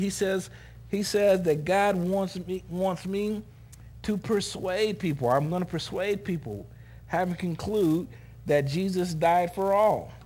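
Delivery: preaching scripture. Real, not acted. Preacher quoting Paul on persuading people, slow emphatic preaching. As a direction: declare each phrase deliberately to the congregation.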